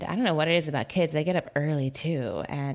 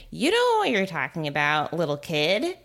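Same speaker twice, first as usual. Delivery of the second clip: mock victim mode; 8 semitones higher than usual. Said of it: "going into that victim mode".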